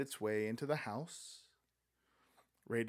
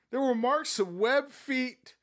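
Egbert; 10 semitones higher, 5 dB louder, slower than usual. Acted. Egbert voiced.

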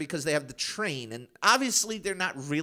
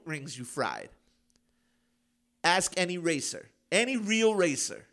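Vin Diesel; 6 semitones higher than usual. Pretend. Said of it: "I don't know if I could do it Vin Diesel style".

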